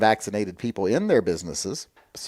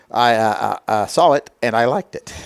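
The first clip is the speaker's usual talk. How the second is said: talking through hiccups; hiccupy, broken start; 5 dB louder than usual. Real, not acted. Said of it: "I got the hiccups".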